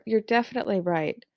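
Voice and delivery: "right" dropping at the end; certain falling tone. Shown as a demonstration. Teacher shows learners a certain "right", falling pitch. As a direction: land "right" on a falling pitch, as settled fact. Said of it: "a falling pitch indicates certainty".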